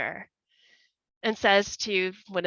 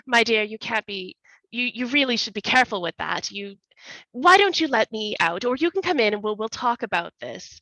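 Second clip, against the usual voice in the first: nervous pleading; 3 semitones higher, faster than usual. Acted. Trapped man pleads nervously.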